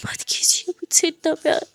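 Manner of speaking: rising into sobbing, voice breaking on the pain; crying confession of love; tearful plea. Acted. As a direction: beg forgiveness through tears. Muskan's tearful confession to Aadiya.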